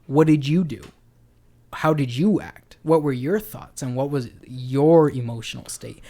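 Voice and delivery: firm questions leaning on YOU and YOUR; imitating questioning dad. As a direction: put the blame back with a punched YOU. Retold dad's constant questioning.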